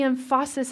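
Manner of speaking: "emphasis" said em-FAH-sis; misplaced stress. Shown as a demonstration. Preacher on what our lives focus on, misplaced stress. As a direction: put the stress of "emphasis" on its middle syllable. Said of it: "Put the right emphasis".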